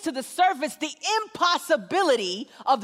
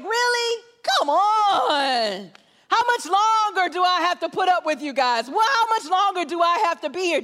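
frustrated, disappointed; 2 semitones higher than usual. Retold or imitated. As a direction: act out being fed up with them. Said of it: "He's frustrated and he's disappointed".

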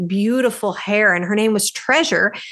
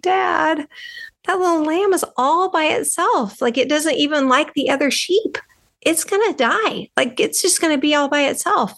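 put-on higher, childlike begging to dad; pleading little girl; 6 semitones higher than usual. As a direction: plead with dad with big eyes. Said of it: "I look at my dad with my big blue eyes".

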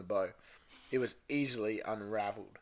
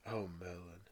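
low, very soft murmur; hushed whisper; 7 semitones lower, 14 dB quieter than usual. Acted. Reader redoes Severus's line as he whispered, hushed. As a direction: drop it right down to a hush. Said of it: "It'd be more like".

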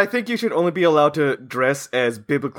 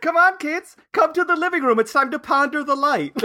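solemn parent voice; 11 semitones higher than usual. Pretend. Parent summoning kids to the light.

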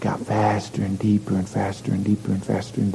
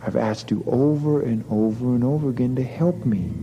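nagging mother's voice, pitched up; scolding mother; 3 semitones higher than usual. Acted. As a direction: scold the boy like a tired mother. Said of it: "she'd go".

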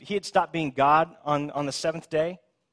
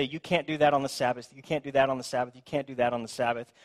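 mock scolding. Mimicking Pharisees' repeated objection.

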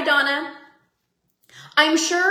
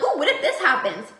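giddy wonder. Retold or imitated. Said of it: "I'm like".

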